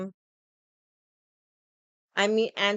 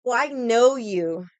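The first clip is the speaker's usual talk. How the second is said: mock smugness; 2 semitones higher, 6 dB louder, slower than usual. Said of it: "people that are just like".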